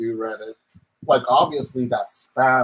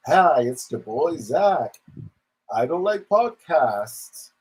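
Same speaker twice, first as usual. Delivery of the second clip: mocking impersonation; 5 semitones higher than usual. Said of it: "this video could have just been like".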